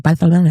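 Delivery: "Barcelona" with th for the c; Castilian lisp. Shown as a demonstration. Friend praising the city, "Barcelona" with a Spanish lisped c. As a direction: say "Barcelona" as Bar-the-lona.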